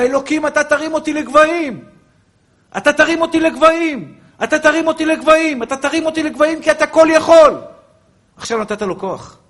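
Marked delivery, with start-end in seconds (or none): 0.0-7.5 loud, high prayer cried out, repeated; shouted prayer. Shown as a demonstration. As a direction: cry it to God with full faith. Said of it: "תצעק את זה בקול גדול".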